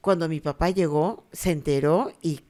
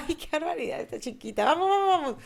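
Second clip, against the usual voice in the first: fast, brushing-off mom voice; impatient mother imitated; 8 semitones higher, faster than usual. Mother dragging the crying girl away, fast and impatient. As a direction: hurry the kid along.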